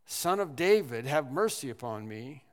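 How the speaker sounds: retold plea shouted out; mild mock yell. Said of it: "as he was yelling out".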